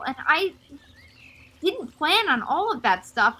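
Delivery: distraught, voice rising and wobbling; tearful pouring out. Acted. Mina to the mother, near tears about her eyes. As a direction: spill it all out, close to tears. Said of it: "she just kinda starts sobbing".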